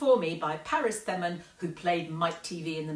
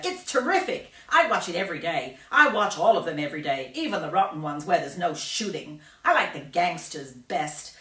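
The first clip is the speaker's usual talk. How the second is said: loud, gun-crazy brat; excited boy voice; 7 dB louder than usual. Acted. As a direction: rave about gangsters. Mike TV voiced in story.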